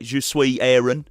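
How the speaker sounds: slow French with an undisguised English accent. Shown as a demonstration. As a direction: make no attempt at a French accent, just English sounds. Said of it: "it just doesn't sound".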